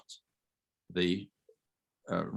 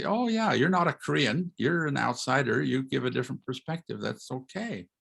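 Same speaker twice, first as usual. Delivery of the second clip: higher-pitched, easygoing reassurance; approving; 4 semitones higher than usual. Retold or imitated. Lecturer imitating his Korean YouTube audience, approving. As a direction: voice an accepting listener, pitched up.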